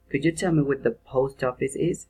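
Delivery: "is" tilted up at the end; rising question intonation. Shown as a demonstration. Teacher reads an indirect question for students, rising at the end. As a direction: end "is" going up. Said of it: "rising intonation".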